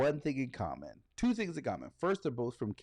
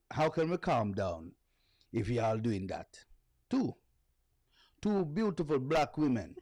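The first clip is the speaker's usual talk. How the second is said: put-on Jamaican accent reading. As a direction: read a singer's words in a Jamaican lilt, half-earnest. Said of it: "read it in a Jamaican accent".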